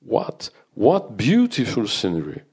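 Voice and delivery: trips on the first "What" then gushes on; a hint of an overcome teacher stammering; stumbling with emotion. Teacher overcome by the view, stumbling on first syllable. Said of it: "Elle en a trébuché d'émotion. Sur la première syllabe".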